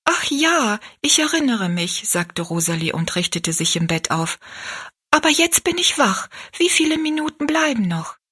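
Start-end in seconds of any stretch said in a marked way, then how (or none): 0.0-2.0 put-on a slightly higher, lively girl's voice; lightly voiced Rosalie. Rosalie remembering as she sits up in bed, lightly voiced. 5.1-8.2 put-on high, eager girl's voice; eager Rosalie. Rosalie awake, asking Betty Ann how long is left, eager.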